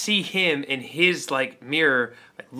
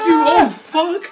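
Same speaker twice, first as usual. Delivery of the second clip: retold yelled insult; 9 dB louder, much slower than usual.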